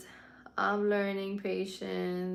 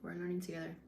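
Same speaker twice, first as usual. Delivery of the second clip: We're learning together repeated quietly to herself; softer echo; 6 dB quieter, faster than usual. Shown as a demonstration. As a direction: echo it softly, inward. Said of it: "softer repeat".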